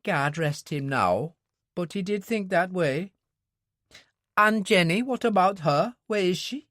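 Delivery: the worried wife asks after Jenny; Mary, worried wife. Acted. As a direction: voice a worried mother figure asking.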